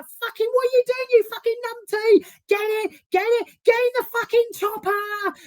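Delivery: high-pitched mock London yell; imitated screaming. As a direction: scream the order like a frantic producer in a helicopter fight. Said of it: "she's literally screaming".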